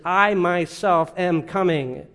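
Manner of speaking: "I myself" slow and deliberate; measured stress on "I myself"; emphatic I MYSELF. Shown as a demonstration. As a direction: give "I" and "myself" each their own weight. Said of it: "making emphasis".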